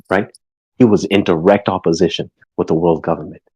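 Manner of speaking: a lightly voiced lecturing mom; stern mother. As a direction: lecture your daughter like a worried mother. Mother character lecturing daughter.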